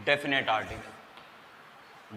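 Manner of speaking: very slow, soft "definite article"; stretched, hushed title read; slow announcing. Shown as a demonstration. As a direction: drawl the heading out quietly. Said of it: "announcing the topic".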